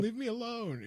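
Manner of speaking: laughing while mimicking a young teen's squeak; squeaky kid voice. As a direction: squeak it out like a pubescent boy. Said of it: "You're like".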